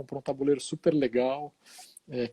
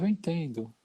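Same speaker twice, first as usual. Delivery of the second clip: soft, restrained reply; keeping calm; 5 dB quieter than usual. Retold or imitated. Chaplain answering a shouting patient, retold calm voice. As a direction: answer softly, holding your composure. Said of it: "eu tentando manter a calma".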